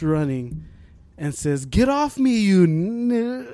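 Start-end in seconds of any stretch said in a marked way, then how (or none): 1.7-3.5 higher-pitched mock yell, cut short; retold loud outburst. Soccer kid to rival, retold outburst. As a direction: imitate a frustrated kid's shout. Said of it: "fucking loud".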